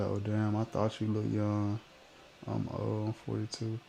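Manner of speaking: ordinary talk, nothing marked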